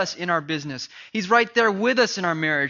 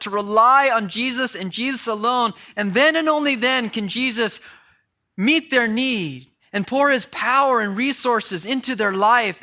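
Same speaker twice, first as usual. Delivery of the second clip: forceful preaching; 2 semitones higher than usual. Acted. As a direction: build to a ringing declaration.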